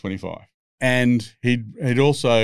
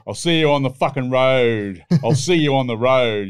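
mock tough-guy threat; 3 semitones higher, 4 dB louder than usual. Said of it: "he thinks he's fucking Mad Max".

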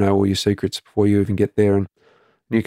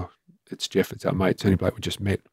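softer, stunned, disbelieving; stunned quiet; 5 dB quieter than usual. Retold or imitated. Husband tells wife their new mate has died, softly stunned. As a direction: let it drop to near quiet in shock.

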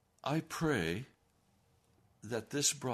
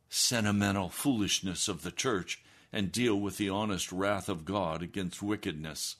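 normal talking voice

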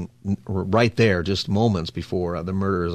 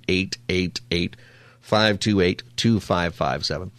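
deliberately slow phone number; 3 semitones lower than usual. Shown as a demonstration. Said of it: "I try to slow it down".

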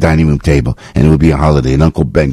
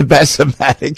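pitched-up mock ad pitchman, laughing into it; Bassomatic sketch voice; 9 semitones higher than usual. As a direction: toss off the sketch name in character.

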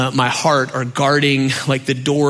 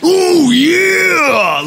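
loud, high, drawn-out wrestler roar; Macho Man Randy Savage; 13 semitones higher, 6 dB louder than usual. Retold or imitated. Preacher likening his dad to a wrestler, hammy impression. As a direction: bellow a wrestling catchphrase. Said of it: "sounded like Macho Man Randy Savage".

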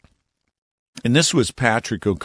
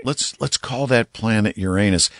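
mock approval; 3 semitones higher than usual. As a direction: play the pleased namer pitching a bad idea. Mocking whoever named the planet.

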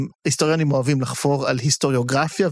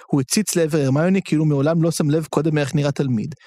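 ordinary talk

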